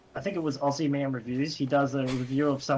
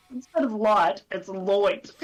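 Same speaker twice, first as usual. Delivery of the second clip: high, loud mock Aussie drawl on "Lloyd"; imitating an American imitating Aussies; mock American take on Aussie; 5 semitones higher, 4 dB louder, slower than usual. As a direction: say "light" like "Lloyd", broad vowel. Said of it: "and he goes".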